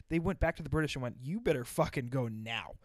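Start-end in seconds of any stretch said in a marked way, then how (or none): 1.2-2.8 mock urgent warning. French warning British, retold.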